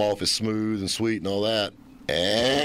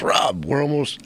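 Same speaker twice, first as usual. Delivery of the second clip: Ed impression; 4 semitones higher than usual. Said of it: "my horrible interpretation of Ed's voice".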